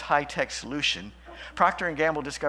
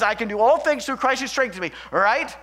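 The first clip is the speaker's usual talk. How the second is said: mock prosperity reading; 7 semitones higher, 7 dB louder than usual. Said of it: "That must be what Paul is trying to teach".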